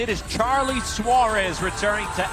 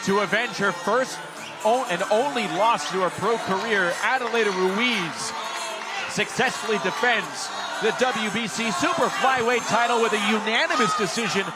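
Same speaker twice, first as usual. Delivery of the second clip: raised, energetic result call; excited commentary; 4 semitones higher than usual. Real, not acted.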